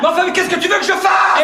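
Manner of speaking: high-pitched exasperated outburst; flustered protest. Acted. Brother pressed to fix the mess, flustered high protest. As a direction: protest helplessly, voice shooting up.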